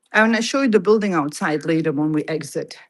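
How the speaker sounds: out of breath, panting between words; breathless from running through sleet. Real, not acted. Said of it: "I'm out of breath".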